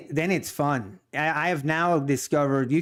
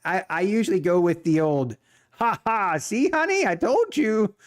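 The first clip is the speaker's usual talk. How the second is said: gloating; 4 semitones higher than usual. Retold or imitated. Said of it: "you're like".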